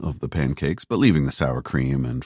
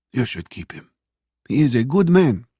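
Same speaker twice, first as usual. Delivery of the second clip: Russian waitress voice, rising high; 9 semitones higher than usual. A narrator's reading. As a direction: advise her as the older waitress. Waitress advises Phoebe, voiced.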